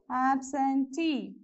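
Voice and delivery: "absentee" slowly split into syllables. Shown as a demonstration. Teacher counting syllables for students, "absentee" broken up slowly. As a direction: say "absentee" in three slow, separate beats. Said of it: "how many syllables you have".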